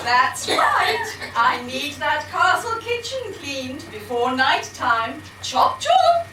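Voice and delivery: shrill, camp panto dame voice; shrill camp pantomime dame. Acted. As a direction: flounce about as a camp dame. Dame bossing husband.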